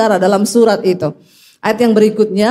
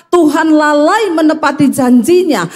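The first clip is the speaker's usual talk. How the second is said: raised-pitch quote of complaining believers; higher, mock complaint; doubters' claim; 5 semitones higher than usual. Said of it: "Banyak orang Kristen yang berkata".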